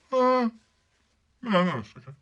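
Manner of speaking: high, hurried denial; boy caught out, stammering no; nervous dodge. Acted. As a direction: squirm out of it nervously.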